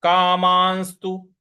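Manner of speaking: कामांस्तु said slowly, syllable by syllable; slow syllable demo. Shown as a demonstration. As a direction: spell out कामांस्तु carefully. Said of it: "इस प्रकार से बोलेंगे". (कामांस्तु धीरे-धीरे स्पष्ट उच्चारण)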